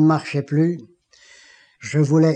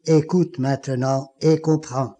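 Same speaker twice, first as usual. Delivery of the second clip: divine voice; slower than usual. Retold or imitated. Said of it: "la même voix me dit".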